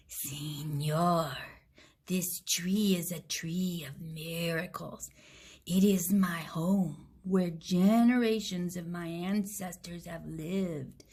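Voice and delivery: low, whispered snake voice that hisses; a boa murmuring a warning into his ear; hissing snake. Acted. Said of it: "hissed in his ear".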